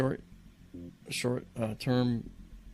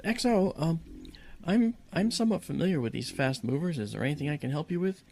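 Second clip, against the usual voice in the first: eager; 7 semitones higher than usual. Retold or imitated. Eager guest offers help.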